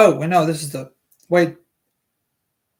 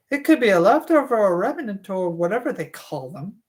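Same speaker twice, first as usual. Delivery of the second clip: Alice Levin voice; 3 semitones higher than usual. Acted. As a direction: play a chatty mother, pitched up. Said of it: "Levin said".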